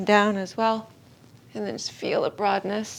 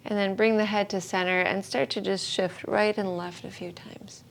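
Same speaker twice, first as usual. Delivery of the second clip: unhurried yoga-teacher guidance with long pauses; calm, spacious meditation instruction; guided meditation. Real, not acted. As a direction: settle the class into stillness, phrase by phrase. Guides gentle head movements.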